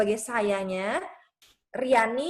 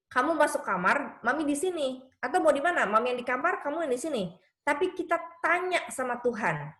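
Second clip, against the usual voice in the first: higher-pitched mom laying out a truce; lightly voiced coaxing mother; 4 semitones higher than usual. Mother to her child after an argument, lightly coaxing.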